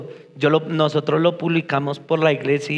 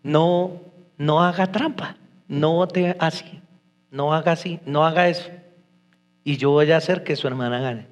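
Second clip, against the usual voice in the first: calm instruction. Retold or imitated. Voices God's calm instruction. (advertencia serena, en voz baja)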